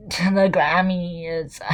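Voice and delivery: high, slow mock-solemn reading; mock formal voice. Shown as a demonstration. Reading Justin's statement aloud in a high, slow mock-formal voice. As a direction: read it like a pompous proclamation. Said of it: "Why do I sound like that?".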